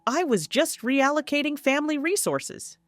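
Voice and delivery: a hint of a condescending dad; dismissive father. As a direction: talk down to her as if she is overreacting. Narrator voices the father.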